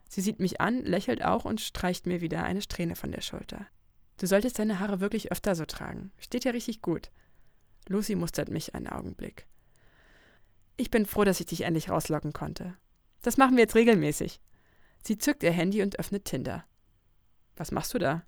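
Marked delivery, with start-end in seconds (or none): 4.2-14.4 Lucy, fond. Acted. Lucy compliments her friend's hair in the taxi, lightly voiced and pleased. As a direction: praise her hair and promise more nights out.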